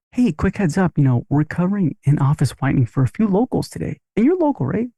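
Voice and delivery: relaxed, friendly pitch that skims past the checkup; casual and easy. Shown as a demonstration. Front-desk pitch to a local, breezy and offhand. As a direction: toss it off like a quick heads-up. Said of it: "So the right way to do it is".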